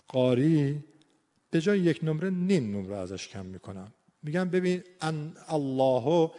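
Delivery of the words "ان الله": ان الله very slowly, the hamza tinted by the heavy lam; slowed demo. Shown as a demonstration. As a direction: draw out ان الله. (ان الله آهسته)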